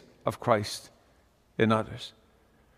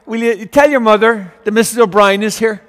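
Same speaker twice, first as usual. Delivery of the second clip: a lightly voiced old Irish beggar woman, a little higher; sweetly asks the boy to fetch his mother, pitched higher; Mrs O'Brien's voice; 5 semitones higher, 4 dB louder than usual. Old beggar at the door asking for the mother, lightly voiced. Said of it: "and she says".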